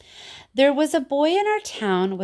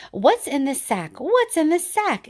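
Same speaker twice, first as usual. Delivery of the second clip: rising, pestering questions; asking; 7 semitones higher, 3 dB louder than usual. Acted. Teacher voicing pestering townsfolk, eager asking.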